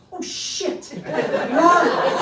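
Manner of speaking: high, breathless oh shit; a startled classmate's hushed curse; shocked whisper. Retold or imitated. Classmate seeing the ruined perm, high shocked whisper.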